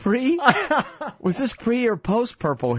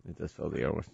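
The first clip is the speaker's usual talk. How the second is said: dropped much lower and softer, like a mock announcer; a pompous mock radio voice for the repeated line; mock deep voice; 13 semitones lower, 12 dB quieter, faster than usual. Repeating the phrase, mock-deep and low.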